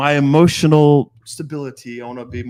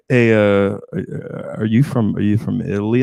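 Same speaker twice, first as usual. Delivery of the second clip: meek and timid; 5 semitones lower, 4 dB louder than usual. Retold or imitated. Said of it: "they come in very meek and timid".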